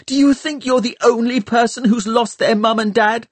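high, angry tirade that rushes then slows; boy ranting at the girl about his own loss; raging rant. A narrator's reading. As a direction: pour out his own grief as an attack. Tom raging during quarrel.

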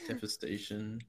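very hushed echo of a whisper; imitated whisper. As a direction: repeat the word barely above a breath. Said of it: "he whispered with no snark".

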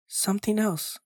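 high pleading beg; boy begging the ice cream man, high plea. A narrator's reading. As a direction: plead desperately. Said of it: "I begged".

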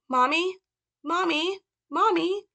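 put-on high, rising pleading child's cries of mommy; Little Frank. Little boy calling to his mother, high childlike pleading. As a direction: cry out like a small scared boy. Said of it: "call him Mother and Little Frank".

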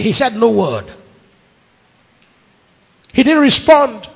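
ordinary talk

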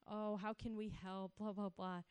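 soft, slow consoling voice; a lightly voiced, soft sympathy; sympathetic leaders. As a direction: comfort the crying girl gently. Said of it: "they said".

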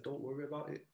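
softly spoken mother's reassurance; calm response. Retold or imitated. Mum answers her son's confession, calm. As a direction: reassure gently, keeping it quiet. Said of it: "she just had this calm response".

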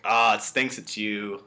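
drawn-out, offhand mock sympathy; imitating a villain casually breaking bad news; slow, casual regret, put on. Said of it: "Like, talking very casually".

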